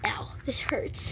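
slow whispered wince; pained whisper. Real, not acted. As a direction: breathe the pain out.

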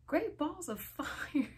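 high, slow mock scream breaking into laughter; hammed-up scream with a giggle inside. A narrator's reading. Reader cracking up while voicing a frightened boy, screaming. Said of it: "Eddie screamed".

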